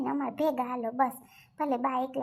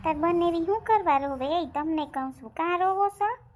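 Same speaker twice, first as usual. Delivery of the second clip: raised, higher-pitched challenge; scolding; 3 semitones higher, 5 dB louder than usual. Acted. Telling the family off for crying, scolding. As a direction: demand an answer, loud at the start.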